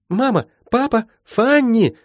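high, urgent calls for family; high-pitched, searching cries; calling out. Acted. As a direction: call out anxiously in a girl's high voice. Girl calls for her family.

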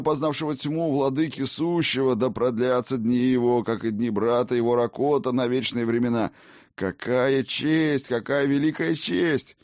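high, gushing servile tavern keeper; grovel, pitched high and eager; fawning innkeeper. Acted. Innkeeper fawns over Odin.

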